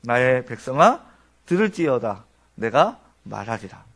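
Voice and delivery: measured, majestic speech of God. Acted. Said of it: "이렇게 말씀하십니다".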